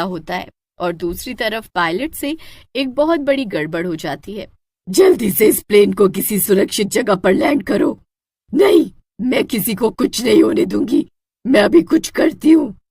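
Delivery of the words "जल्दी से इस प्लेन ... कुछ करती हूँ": urgent. Acted. Urgent command in crisis.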